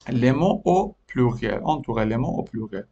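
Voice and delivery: "Les mots au pluriel" drawn out very slowly; slow repeat. Shown as a demonstration. Teacher repeats "Les mots au pluriel" to the pupils, slowly. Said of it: "teacher repeats the phrase slowly".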